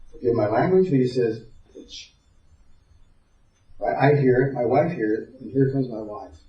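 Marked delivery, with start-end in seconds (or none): 1.8-2.1 very soft imitated swear; under his breath. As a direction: barely let the word out, imitating a sulky son. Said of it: "he says under his breath".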